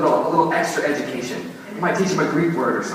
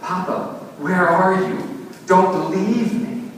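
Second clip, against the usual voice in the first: higher, pleading cry slowing at the end; frantic cry; 4 semitones higher, slower than usual. Acted. Jesus calls out to his absent father, pleading. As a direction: beg not to be left. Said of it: "Jesus cried frantically".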